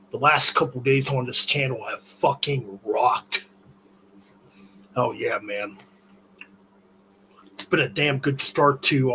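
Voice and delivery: talking while chewing antacids; words round a chewed tablet. Real, not acted. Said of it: "I'm chewing on fucking antacids at the moment. That's why I sound kinda funny".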